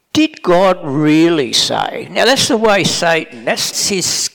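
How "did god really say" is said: sly doubt. Retold or imitated. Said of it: "uses that tone and that expression".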